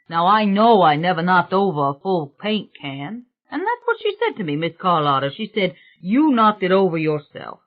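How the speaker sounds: lightly voiced fed-up workman; a touch of indignation, retelling mishaps; indignant workman. Painter complains of the spilled paint, lightly indignant.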